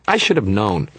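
put-on little kid's high voice, exclaiming; high-pitched childlike fairy; Toot's high-pitched voice. A narrator's reading. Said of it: "His voice was high-pitched".

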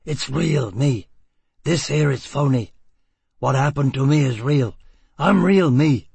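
building from firm to a loud shout; rising shout. Acted. Foyle shouts down the fake doctors.

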